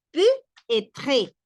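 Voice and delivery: peut-être with the T linked into être, stressed; liaison in peut-être. Shown as a demonstration. Teacher drilling peut-être for Spanish speakers. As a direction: run peut-être together, T carried over. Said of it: "así, así".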